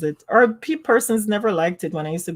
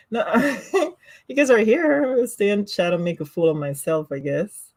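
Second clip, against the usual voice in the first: ordinary delivery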